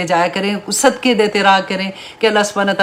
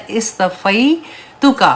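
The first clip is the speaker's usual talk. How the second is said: اصطفیتک drawn out very slowly, syllable by syllable; very slow Quranic recitation; much slower than usual. Acted. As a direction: stretch out each sound of اصطفیتک.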